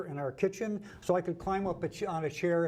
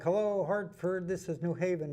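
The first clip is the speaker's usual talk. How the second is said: put-on little kid voice. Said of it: "in this little kid voice".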